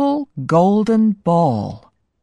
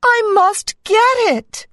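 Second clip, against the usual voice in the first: high-pitched princess voice; high, urgent little resolve of a princess; fretting princess, pitched way up; worried princess. A narrator's reading. Princess frets over lost ball.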